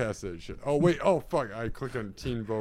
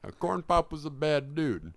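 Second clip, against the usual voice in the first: put-on old president voice, found the voice; Joe Biden impression; 3 semitones higher than usual. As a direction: nail the elderly politician voice. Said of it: "There it is".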